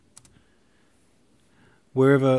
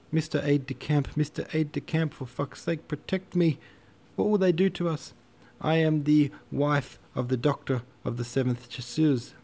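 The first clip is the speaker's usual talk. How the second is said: hysterical hollering; 6 semitones higher than usual. A narrator's reading. Doctor's wife hollers at the aide-de-camp, panicked and high. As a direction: scream for help like a desperate woman. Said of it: "she hollered".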